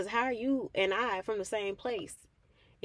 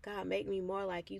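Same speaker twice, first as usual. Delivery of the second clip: "make me more like you" said softer and lower; soft earnest prayer; 3 semitones lower, 5 dB quieter than usual. Retold or imitated. Speaker quietly asking God to be more like him. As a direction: pray it quietly. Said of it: "saying all of those prayers".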